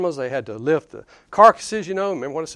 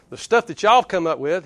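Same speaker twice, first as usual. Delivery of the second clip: put-on folksy Southern accent, a touch louder; 4 dB louder than usual. Preacher voicing Jesus to the legalists, Southern accent. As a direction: lay on a little Southern accent. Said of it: "say it with that southern accent".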